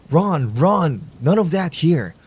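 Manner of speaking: high, loud shout to break it up. Acted. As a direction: yell it out to stop the fight. Marshall pulling the vigilante off.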